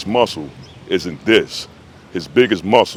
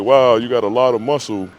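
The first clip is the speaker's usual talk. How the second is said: put-on higher, wowed little-boy voice; lightly imitated awestruck son; excited kid; 4 semitones higher than usual. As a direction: imitate a kid amazed by big muscles. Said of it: "the son is all excited".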